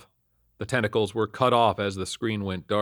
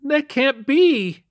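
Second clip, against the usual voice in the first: high, slow, wailing sob; sobbing denial; 7 dB louder, much slower than usual. A narrator's reading. Son learns his mother is dead, sobbing. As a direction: wail it in anguished disbelief. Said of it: "he sobbed".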